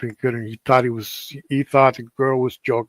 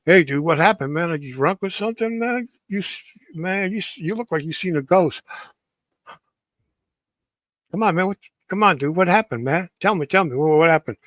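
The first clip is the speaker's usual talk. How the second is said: a hint of an excited cousin, a bit higher; lightly voiced cousin; 4 semitones higher than usual. Cousin pressing the scared guy for what happened, lightly higher. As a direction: pitch up a little as the pushy cousin.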